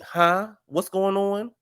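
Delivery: a lost, high double-take; confused. Retold or imitated. Recapper lost in the argument, high baffled confusion. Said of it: "I was like".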